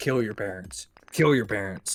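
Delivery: ominous, all-seeing surveillance overseer voice. A streamer describes a bit they do on stream, in an overseer big brother voice. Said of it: "throw on like our overseer big brother voice".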